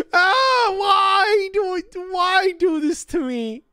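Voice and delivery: a half-laughing anguished whine at the task; frustrated wail. Real, not acted.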